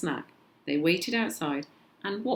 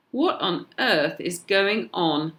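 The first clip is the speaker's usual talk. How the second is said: louder, slow exclaim; a mother's startled, slow outcry; mother at the hospital desk cries out in surprise; cried out; 3 semitones higher, 6 dB louder, slower than usual. Acted. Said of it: "my mum cried".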